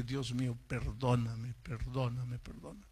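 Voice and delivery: low and soft, fading away; pleading prayer. Retold or imitated. Young man alone begs God for forgiveness, softly pleading.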